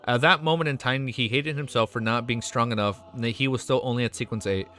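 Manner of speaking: steady read-aloud novel narration; story narration. A narrator's reading. Streamer reading a novel chapter to viewers, narration.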